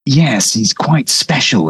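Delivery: slow, fond praise of the automaton; slow, admiring aside to the mechanic. Acted. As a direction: linger on it proudly. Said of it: "Vander says admiringly".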